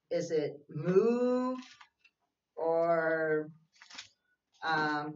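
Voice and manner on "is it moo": drawn-out, very slow playful moo; mock moo. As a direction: tease the kids with the wrong animal sound. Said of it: "what sound a frog makes".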